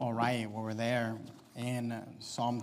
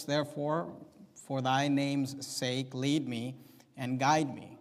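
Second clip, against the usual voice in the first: psalm read out in measured, weighted phrases; emphatic scripture reading; 4 dB louder than usual. Acted. Preacher reading David's plea to God, emphatic scripture reading. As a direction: declaim the plea phrase by phrase, with firm openings.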